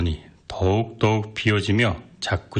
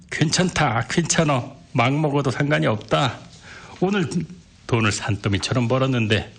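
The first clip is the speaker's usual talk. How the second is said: tipsy bragging; 4 semitones higher than usual. Acted. Drunk man insists, boasting.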